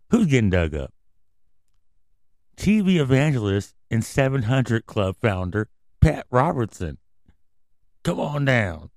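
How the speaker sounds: booming host intro; game show announcer. Acted. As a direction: call him on down like a host. Announcer calls contestant.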